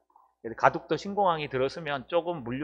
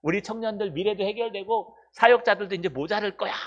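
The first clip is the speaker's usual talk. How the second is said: raised, bright-sounding preacher proclaiming good news; mock happy prophecy; 4 semitones higher than usual. Pastor mimics a prophet promising Seoul blessings, raised mock proclaiming. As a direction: play a crowd-pleasing prophet promising blessings. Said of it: "막 이런 거 선포하라고".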